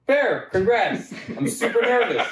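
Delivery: hammed-up frightened yelp; mock nervous. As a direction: ham up the terror in a squeaky voice. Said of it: "And I was like".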